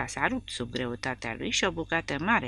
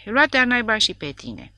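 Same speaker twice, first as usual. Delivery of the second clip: higher, louder squawking parrot; shrill parrot screech; 7 semitones higher, 5 dB louder than usual. A narrator's reading. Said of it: "a răspuns papagalul cu un țipăt strident". (papagal care țipă strident, sus și tare)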